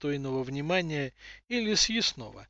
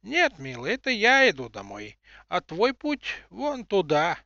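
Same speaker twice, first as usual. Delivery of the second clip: put-on old woman voice; 4 semitones higher, 4 dB louder than usual. Seer answers tenderly.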